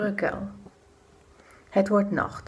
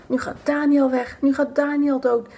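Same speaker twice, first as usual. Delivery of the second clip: gloating whisper; 3 semitones higher than usual. Acted. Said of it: "ze fluisteren elkaar".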